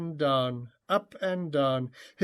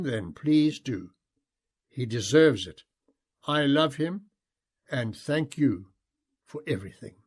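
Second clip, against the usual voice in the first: a sincere, humble prayer; heartfelt prayer. Acted. Spoken prayer to the horses.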